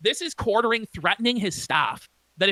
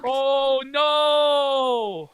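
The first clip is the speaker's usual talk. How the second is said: shout. Real, not acted. Reacting to firing threat.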